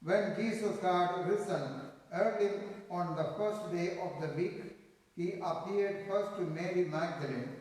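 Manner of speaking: solemn, measured gospel proclamation; gospel reading. Acted. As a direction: proclaim it from the pulpit.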